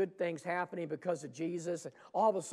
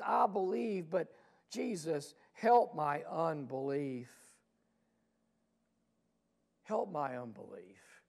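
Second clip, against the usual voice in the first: mild pleading cry. Acted. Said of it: "With a loud cry, with tears".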